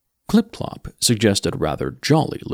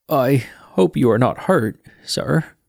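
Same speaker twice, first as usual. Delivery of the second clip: put-on polite young Mort; 3 semitones higher, 4 dB louder than usual. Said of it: "he said politely".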